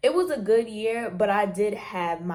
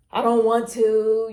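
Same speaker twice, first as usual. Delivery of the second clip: whiny refusal; 4 semitones higher, 9 dB louder than usual. Retold or imitated. Acting out procrastinating student.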